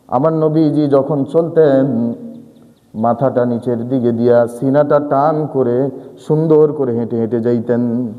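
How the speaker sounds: slow, low devotional tone; reverent. Real, not acted. Preacher lovingly describing how the Prophet walked. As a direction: describe him lovingly and slowly.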